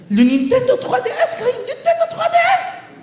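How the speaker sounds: high, loud pleading mother; shrill-pitched mock plea, offering the toy; pleading mom. Mom begging her son to take the Nintendo, high and loud. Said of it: "and she goes".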